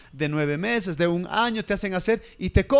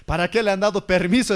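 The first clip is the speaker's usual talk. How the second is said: mock demon; 3 semitones lower than usual. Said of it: "los demonios tendrían".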